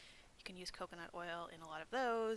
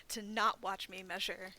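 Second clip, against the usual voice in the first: laughing through the words, slower; 7 dB louder than usual. Real, not acted. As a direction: giggle while correcting yourself. Laughs at her own slip.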